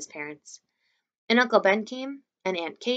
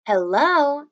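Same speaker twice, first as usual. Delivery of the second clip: scoffing hello; 9 semitones higher, 7 dB louder than usual. A narrator's reading. Summer scoffing at Augie.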